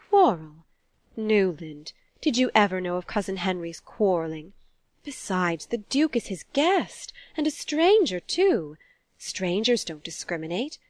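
mild indignation with swooping stressed words; lightly voiced shocked mother. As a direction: rebuke your son, a touch affronted. Mother's shocked rebuttal in novel.

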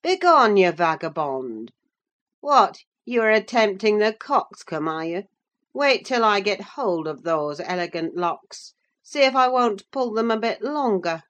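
older brother mocking the boy's long hair; angry scolding. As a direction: drive the boy out in contempt. Hindley berating Heathcliff.

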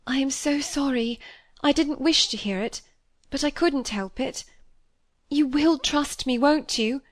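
a hint of an anxious girl begging trust; lightly voiced young girl. A narrator's reading. Molly's voice, higher and pleading.

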